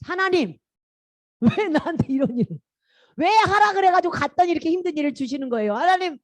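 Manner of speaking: high, plaintive mock complaint; acted Moses demanding an explanation; protesting to God. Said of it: "하나님께 따졌어요".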